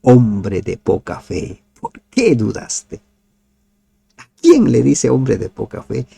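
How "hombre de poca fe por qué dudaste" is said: gentle rebuke. Acted. Jesús reprende a Pedro.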